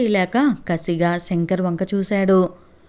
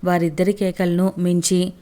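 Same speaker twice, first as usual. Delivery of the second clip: ordinary delivery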